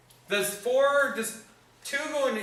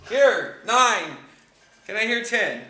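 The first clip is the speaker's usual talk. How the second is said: auctioneer; 4 dB louder than usual. Pretend. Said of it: "I feel like an auctioneer all of a sudden".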